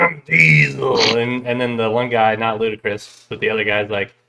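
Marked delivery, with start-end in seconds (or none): 0.0-1.2 a slow, drawn-out Diesel line, lightly voiced; slow mock Vin Diesel. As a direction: lightly mimic a tough action star, slowly. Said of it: "he's just, he's cranking".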